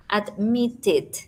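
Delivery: "Admitted" said slowly, with the force on MIT; "Admitted" as ad-MIT-ted, sounded out for learners; stress on middle syllable. Shown as a demonstration. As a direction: lean on the second syllable of "Admitted". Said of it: "la mayor fuerza".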